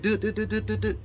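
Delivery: a high repeated "dude" mimicking the dial tone; mock dead line beeps. Telling viewers the call cut out, high mock beeping. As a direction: chant it like the beeping of a dropped call.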